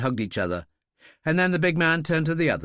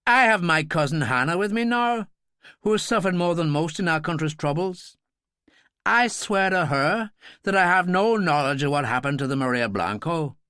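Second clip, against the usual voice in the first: fervent vow, then sharp dismissal; with passion; 4 semitones higher than usual. Acted. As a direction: swear it so the cousin listening believes. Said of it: "So he spoke with passion".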